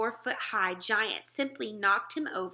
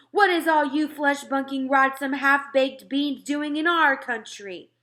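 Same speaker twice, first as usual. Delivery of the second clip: angry giant roar; 6 semitones higher, 10 dB louder than usual. Acted. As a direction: rage at the tiny intruders. Giant rages at the soldiers.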